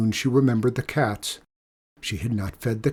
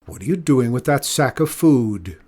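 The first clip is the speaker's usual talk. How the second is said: put-on gruff old man; 4 dB louder than usual. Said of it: "he called".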